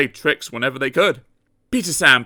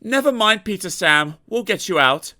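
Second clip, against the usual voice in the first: higher, gentle reassurance; kind diesel; 8 semitones higher than usual. A narrator's reading. Rusty comforting battered Peter Sam, higher and kind. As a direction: comfort a hurt friend.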